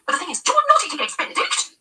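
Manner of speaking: high shrill scolding; high, shrill reproach; shrieking. A narrator's reading. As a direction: shriek it at him in alarm. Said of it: "Trish practically shrieks at Eddie".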